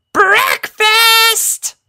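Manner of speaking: very high, loud call; old granny hollering across the farm. A narrator's reading. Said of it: "called out Granny Smith".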